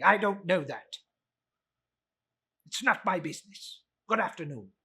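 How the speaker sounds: put-on scornful, dismissive old miser; cold Scrooge. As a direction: wave them off coldly.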